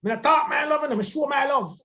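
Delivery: lightly voiced stubborn husband; gruff man voice. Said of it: "although I use the man voice".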